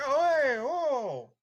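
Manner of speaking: loud, high crowd outcry; rising cacophony. Acted. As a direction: imitate a tavern crowd shouting out. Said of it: "There's a cacophony of rising".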